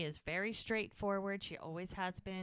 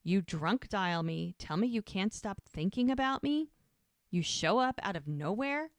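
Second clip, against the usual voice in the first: retold anger; 3 semitones higher, 5 dB louder than usual. Man confronting the woman who drunk dialed him, retold as angry. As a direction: imitate a man indignantly laying out his grievance. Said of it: "Like, he's mad at her".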